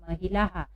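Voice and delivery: "महिलाहा" closing on an echoed हा; visarga demonstration. Shown as a demonstration. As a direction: model "महिलाहा" for learners. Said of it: "क्या पढ़ेंगे?".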